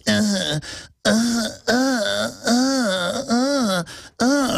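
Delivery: high mock whimpering stammer; rising fake-crying stammer; Glenn Beck cowering. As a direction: whimper the uhs like a coward. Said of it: "and goes".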